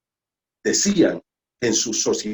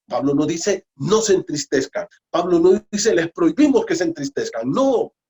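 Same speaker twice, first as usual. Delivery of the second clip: louder and higher, building to a cry; fervent preaching; 5 semitones higher, 4 dB louder than usual. Real, not acted. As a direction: preach it out with full force. Preaching at full force.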